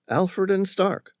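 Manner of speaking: a lightly voiced eager coffee girl; coffee girl impressed. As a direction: repeat it, impressed and a bit awed. Coffee girl repeats firm name.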